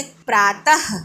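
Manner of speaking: प्रातः said slowly, ending in an audible breathed h; drawn-out प्रातः with h ending; visarga as h. Shown as a demonstration. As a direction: finish प्रातः on a clear "ha" puff. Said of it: "विसर्ग का उच्चारण ह की तरह होता है".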